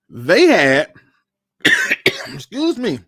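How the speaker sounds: choking up, clearing throat between words. Real, not acted. Vlogger to viewers, choking up with irritation. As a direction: push through a catch in the throat. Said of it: "I'm choking up over here".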